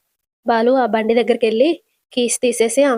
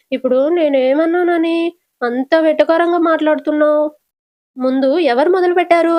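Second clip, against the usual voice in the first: higher-pitched, quarrelsome retort; indignant; 5 semitones higher than usual. Acted. Mother-in-law challenges daughter-in-law's sarcasm, indignant. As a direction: protest the accusation, pitch raised.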